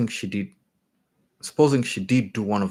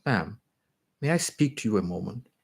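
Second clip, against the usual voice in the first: sighing. Acted. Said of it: "a voice like a sigh, almost like a sob, breathed".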